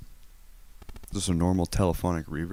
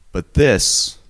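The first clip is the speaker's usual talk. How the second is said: cave reverb; 8 dB louder than usual. Shown as a demonstration. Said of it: "Indus says normal sized cave".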